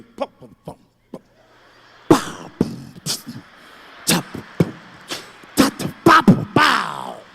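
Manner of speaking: low rumbling then loud beatbox pops; beatbox a rhythm under your breath then punch it. Pretend. Kid making a beat while mom stares, beatbox. Mimics a beat after cussing.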